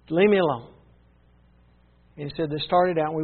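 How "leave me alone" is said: sudden louder burst after a pause; mock angry order, briefly raised; retold angry outburst. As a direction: push them away with it. Angry man ordering visitors away.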